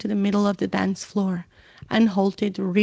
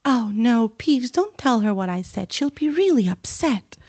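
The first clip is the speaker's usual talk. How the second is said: anxious pleading, higher; frantic plea; 3 semitones higher than usual. Acted. Hermione begging Peeves, anxious plea. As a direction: beg him to stop, worried. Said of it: "Hermione whispered frantically".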